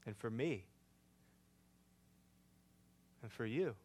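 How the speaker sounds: hushed. Real, not acted. Hushed sermon climax.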